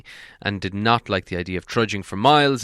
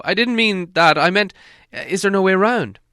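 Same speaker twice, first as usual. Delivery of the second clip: Bilbo's voice; 10 semitones higher, 6 dB louder than usual. A narrator's reading. Bilbo protests.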